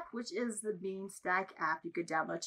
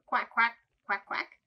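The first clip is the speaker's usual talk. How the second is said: duck quack; 5 dB louder, slower than usual. Shown as a demonstration. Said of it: "a duck says".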